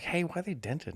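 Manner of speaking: high, puzzled questioning; suspicious question. Retold or imitated. Buddy eyeing dented cans, high and suspicious. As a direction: raise the pitch, suspicious of the cans.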